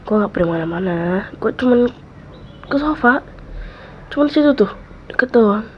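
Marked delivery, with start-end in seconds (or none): 1.4-5.7 reassuring. Acted. Reassuring friend he stays.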